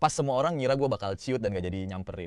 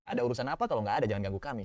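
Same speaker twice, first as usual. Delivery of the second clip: a bit annoyed; 4 dB quieter, faster than usual. Acted. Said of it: "dengan nada agak kesel".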